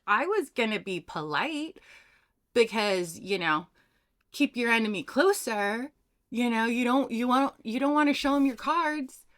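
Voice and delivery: a hint of an exasperated grandfather; mock disbelief from the grandfather. Grandfather voiced in story.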